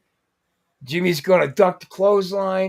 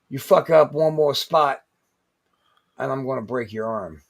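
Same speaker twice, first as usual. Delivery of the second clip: measured threat; 2 semitones lower than usual. Retold or imitated. Veteran to rookie in the corner, retold stern threat. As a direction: lay down the threat, pause, then sink into it.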